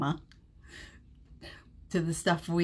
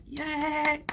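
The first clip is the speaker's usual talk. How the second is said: excited yay; 7 semitones higher than usual. Retold or imitated. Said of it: "I was like".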